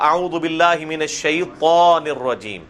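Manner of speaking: الشیطان with a thick, heavy تا, slow; تا کو موٹا کر کے. Shown as a demonstration. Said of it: "تا کو موٹا کر کے پڑھنا ہے".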